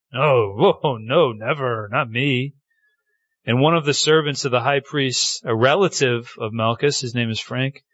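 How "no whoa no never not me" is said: drawn-out, swooping mock protest; acted denial. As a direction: play at innocence with exaggerated noes. Voicing Peter's denial by the fire.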